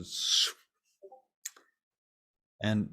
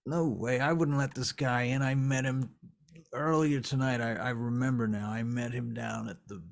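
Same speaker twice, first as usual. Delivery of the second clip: higher-pitched, agitated protest; a touch of indignant fluster; defensive denial; 3 semitones higher, 3 dB louder than usual. Acted. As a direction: insist it wasn't you, piecing it together. Character denies letting intruder in.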